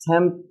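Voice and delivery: TEMPERATURE as TEM-puh-ruh-chur, evenly split; four separate syllables. Shown as a demonstration. Teacher voices how learners might read it, four separate syllables. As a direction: spell out all four beats of TEMPERATURE, starting high. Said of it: "you think it's one".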